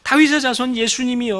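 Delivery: loud high cry of a desperate beggar. Acted. Blind beggar shouts to Jesus across the crowd, loud and high. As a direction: call out over the crowd. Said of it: "그래서".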